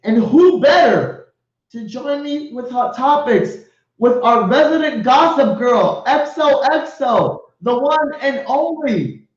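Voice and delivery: slow, drawn-out emcee build-up; hyped announcer intro. Acted. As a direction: stretch each word to hype the segment. Host hyping segment and co-host.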